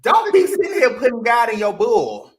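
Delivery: fed-up shout at hypocrites, ending high; loud rant. Real, not acted. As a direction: call them out hard. Venting about hypocritical Christians.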